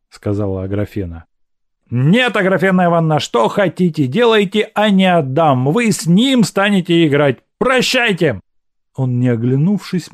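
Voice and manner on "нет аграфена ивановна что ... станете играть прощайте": fast, high, stubborn refusal; Evsey refusing. Acted. Evsey stubbornly refusing Agrafena the cards, quick and high. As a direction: refuse firmly then say goodbye.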